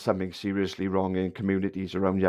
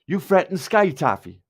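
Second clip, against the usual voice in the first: mocking read-out; 5 semitones higher, 3 dB louder than usual. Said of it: "I'll just read it".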